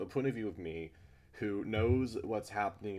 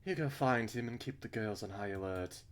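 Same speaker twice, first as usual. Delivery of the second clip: put-on slightly raised British accent; Missus Burns; 4 semitones higher than usual. Missus Burns sending someone to find him, in a British accent. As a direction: give the orders in a British accent. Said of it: "giving her a British accent".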